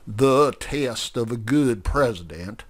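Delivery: lightly voiced orator, measured and grand; speechify like a self-important candidate; pompous politician. Grover gives a pompous speech.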